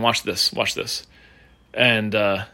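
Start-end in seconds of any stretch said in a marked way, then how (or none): 0.5-1.1 unvoiced whisper, a touch softer. Host teasing the crowd, whispering the words. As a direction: breathe it like a secret to the crowd. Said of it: "he starts whispering in this guy's ear".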